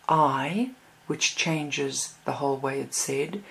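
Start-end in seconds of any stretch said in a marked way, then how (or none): 0.1-0.7 "I" set apart with a rising lift; stress on I. Shown as a demonstration. Teacher shows students where emphasis can fall, "I" stressed. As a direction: lean on "I" and let it rise. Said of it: "put the emphasis on".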